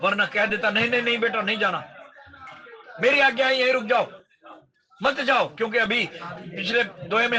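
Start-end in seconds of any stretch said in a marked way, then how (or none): 0.7-5.6 mildly insistent, raised plea to stay; forbidding father. Acted. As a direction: lightly act a father stopping his son. Father forbidding his son, acted. (हल्के आग्रह से रोकते पिता)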